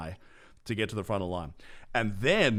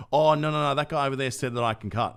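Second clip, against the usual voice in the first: quick imitation of a flustered queue-jumper; protesting excuse; 5 semitones higher, 5 dB louder, faster than usual. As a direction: blurt out a hasty mock excuse. Retold queue-jumper making excuses.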